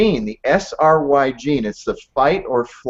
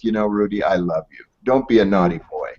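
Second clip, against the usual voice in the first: lower, softened voice for a loving reproof; gentle, loving father; 5 semitones lower than usual. Retold or imitated. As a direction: imitate a dad gently correcting his son. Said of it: "it was wrapped in such grace".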